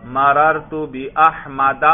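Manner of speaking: بأحمد slowly, ending in a clear short "a", bi-Ahmada; fatha ending. Shown as a demonstration. Teacher showing students the fatha instead of kasra, fatha ending. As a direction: read بأحمد deliberately with a final "-da". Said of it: "فتحہ آ رہا ہے".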